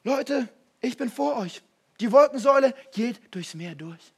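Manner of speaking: loud, slow, booming divine voice; playful booming voice of God; God speaking. Pretend. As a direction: announce it grandly like God himself.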